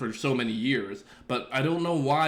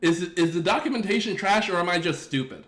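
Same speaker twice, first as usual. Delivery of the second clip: higher, giggling through the question; laughing self-doubt; 5 semitones higher than usual. Retold or imitated. Streamer joking about doubting himself over docs, laughing. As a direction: ask it half-laughing at yourself. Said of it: "'cause I'm like".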